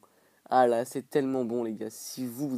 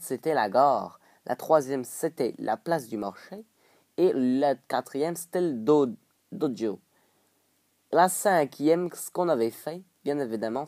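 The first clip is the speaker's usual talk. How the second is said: broad mock Québécois vowels; hammed-up Québécois French; put-on Québécois accent. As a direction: slip into a playful French-Canadian accent. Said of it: "je prends un accent comme ça".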